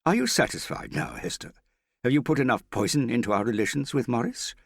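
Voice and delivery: angry father lashing out. A narrator's reading. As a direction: turn on her in anger. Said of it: "Her father turned on her angrily".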